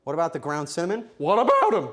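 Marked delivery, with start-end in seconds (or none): 1.2-1.9 loud, high cracking retort; voice breaking. Real, not acted. Baker snapping back about the ground cinnamon, voice breaking. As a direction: let the voice jump up and crack. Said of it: "I didn't voice break".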